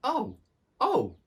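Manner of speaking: high, loud distressed oh; a little mouse's cry of dismay. A narrator's reading. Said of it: "cried Timmy".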